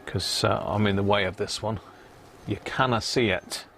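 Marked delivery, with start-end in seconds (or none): 2.5-3.6 put-on a light passing Scottish accent. A hint of Scottish accent while leaning into the camera shot. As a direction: slip into a mock Scottish lilt for a moment. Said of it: "look at me with a Scottish accent".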